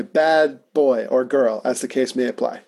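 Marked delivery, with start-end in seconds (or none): 0.0-1.6 mock scolding. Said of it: "look into that mirror ... and say".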